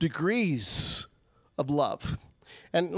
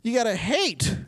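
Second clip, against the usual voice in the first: Jesus urging; 5 semitones higher than usual. Retold or imitated. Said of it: "he says".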